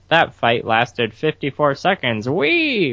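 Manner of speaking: cutesy mascot, slow then squealing high; weird bat voice. Retold or imitated. Telling co-hosts how the hamster bat narrates, weird voice. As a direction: imitate a cutesy animal narrator, ending in a high "wee!". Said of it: "this really weird voice".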